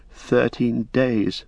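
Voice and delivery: slow, halting "thirteen days", unsure; faltering. Acted. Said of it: "faltered Pippin".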